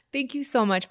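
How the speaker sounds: real laughter as she thanks him; laughing thanks. Real, not acted. Thanking her fan for his kind words, softly laughing.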